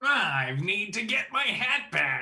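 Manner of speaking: high, slow drawn-out voice. Voicing the magician from Frosty the Snowman who wants his hat back: Frosty the Snowman magician as the boss voice. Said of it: "I'm just doing the, the boss again".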